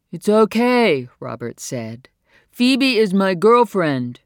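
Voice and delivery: put-on high, loud, slow earnest young man; Robert's voice. A narrator's reading. Robert telling Phoebe's mother she is his girlfriend, high and loud. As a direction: insist on it, slowly and proudly.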